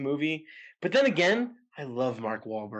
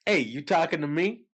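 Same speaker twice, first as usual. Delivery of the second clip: mystery impression; 5 semitones higher than usual. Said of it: "you have to guess who I'm doing".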